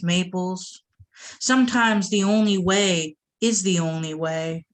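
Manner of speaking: measured, deliberate poem delivery; spoken-word recital; poetry reading. Acted. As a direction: read it like a performed poem, weighing each line. Reads pantoum aloud.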